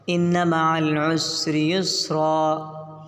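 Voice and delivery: very slow recitation, "युसरा" ending in long aa; model recitation. Shown as a demonstration. Teacher showing how to read the verse, slow recitation. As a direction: recite slowly and hold every long vowel. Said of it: "ऐसे पढ़ेंगे".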